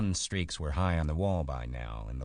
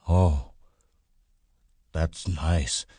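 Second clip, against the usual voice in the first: loud, simple-minded delight; slow-witted big man, delighted; 7 dB louder, much slower than usual. A narrator's reading. Big man stroking the hair harder, loud delight.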